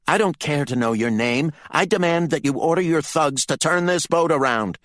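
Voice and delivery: high, loud, angry demand; furious. A narrator's reading. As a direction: demand it in a fury, pitch climbing. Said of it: "He was still in a fighting fury".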